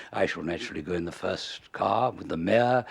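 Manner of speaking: lofty, pompous pronouncement. Retold or imitated. Arthur claiming the mayor's car, pompous and lofty. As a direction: speak as the self-important man claiming first place. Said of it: "And Arthur said".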